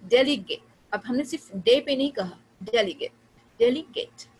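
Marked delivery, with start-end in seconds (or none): 0.1-0.7 delegate with strong DEL, lighter stress on GATE; loud, careful DEL-e-gate for delegate; primary and secondary stress. Shown as a demonstration. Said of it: "गेट भी है stress और डे भी है". 2.6-4.3 delegate with strong DEL, lighter stress on GATE; careful DEL-e-gate for delegate, each take separate; primary and secondary stress. Shown as a demonstration. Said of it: "गेट भी है stress और डे भी है".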